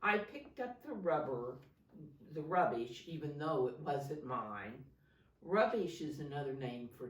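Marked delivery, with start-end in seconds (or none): 0.0-4.9 put-on clear, projected story reading to children; picture-book narration. A narrator's reading. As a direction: read it out expressively, stressing key words. Reads picture book aloud.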